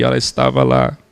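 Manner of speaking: deep, loud, slow booming preacher voice; mock faith healer. Mocking a showy healing preacher to the class, deep slow boom. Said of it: "Como eu expliquei na aula do timbre".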